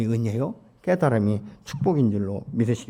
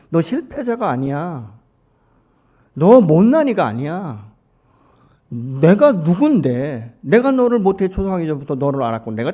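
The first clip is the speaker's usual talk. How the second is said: slow, louder declaration; God declaring; 5 semitones higher, 8 dB louder than usual. Retold or imitated. Pastor voicing God's promise to the faithful, slow and loud. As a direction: proclaim each word slowly. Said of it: "나다라고 지금 말씀하시는".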